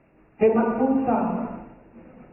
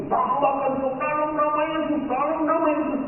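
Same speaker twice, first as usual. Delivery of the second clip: higher-pitched urgent command in prayer; re-enacted deliverance prayer; 7 semitones higher than usual. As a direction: imitate yourself rebuking in Jesus' name. Acting out his forceful deliverance prayer.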